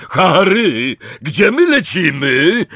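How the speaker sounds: high, loud, winded call; big breathless giant voice; panting. A narrator's reading. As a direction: gasp out a question while hurrying behind. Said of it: "wydyszał za jego plecami Hagrid".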